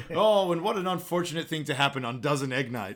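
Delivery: announcer line through laughter; mock-solemn call cracking up; laughing commentator. Commentator on egg night, laughing.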